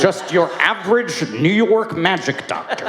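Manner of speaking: lightly put-on New York accent; Englishman's attempt at New York; mock New York accent. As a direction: play up a bad New York accent, laughing. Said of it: "Doctor Strange with his New York accent".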